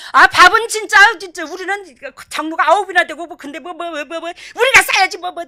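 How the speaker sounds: loud, high-pitched insisting; emphatic protest. Retold or imitated. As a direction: insist on treating, flustered and loud. Acted protest over who pays. (손사래 치듯 크게 우기는 말투)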